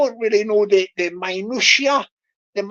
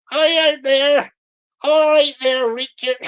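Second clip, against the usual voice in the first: Bristol scammer voice. Retold or imitated. Scammer greeting his victim Richard, lightly put-on voice. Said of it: "I'll do the Bristol voice".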